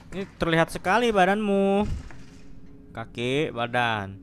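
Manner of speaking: nervous loud exclaim. Real, not acted. Horror game monster appears.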